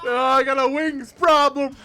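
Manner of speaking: put-on old-timey voice.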